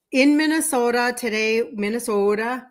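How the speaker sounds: showing off her Minnesota accent; Minnesota-style long O in Minnesota. Shown as a demonstration. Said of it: "can you hear my accent?".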